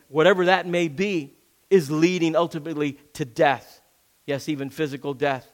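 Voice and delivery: usual speaking voice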